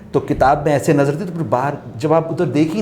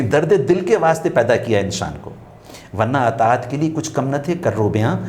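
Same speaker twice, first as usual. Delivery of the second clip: recited couplet; 3 semitones lower than usual. Shown as a demonstration. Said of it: "پہلا مصرع نہیں پڑھ رہا میں".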